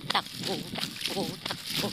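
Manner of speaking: breathless running chant; panting between words; while running. Real, not acted. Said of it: "Takbo na naman".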